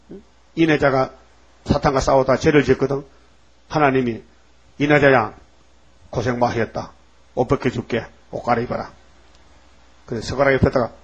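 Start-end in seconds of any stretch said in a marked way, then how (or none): 4.8-8.9 gentle consolation. Acted. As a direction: comfort a weary servant. God consoling his servant.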